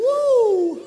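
high, loud laughing woo; joyful high woo; excited whoop. Real, not acted. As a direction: whoop with delight. Excited cheer after solo joke.

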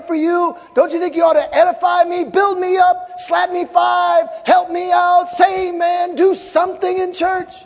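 high, loud preacher's rebuke; exasperated shouted plea. Acted. Preacher pleading with those who stay home, exasperated shout.

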